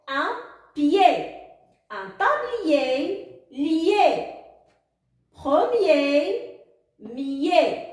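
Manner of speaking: slow, separated words and final syllables; syllable-reading drill. Shown as a demonstration. Teacher models the yé sound for pupils, slow reading drill. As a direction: stretch the word, then repeat its ending alone. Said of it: "Passons maintenant à lire quelques mots et quelques syllabes".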